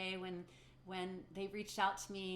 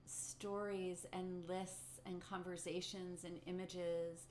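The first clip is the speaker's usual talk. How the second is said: gently paced meditation guidance with long pauses; lightly held meditation-teacher delivery, leaving room to notice; guided meditation. Acted. Teacher guiding the community through a short meditation, guided meditation.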